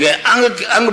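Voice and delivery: अंग drawn out slowly into NG; slow teaching अंग with a nasal ending; demonstrated nasal syllable. Shown as a demonstration. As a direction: show where the NG strikes in अंग. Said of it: "यहाँ stroke लगेगा".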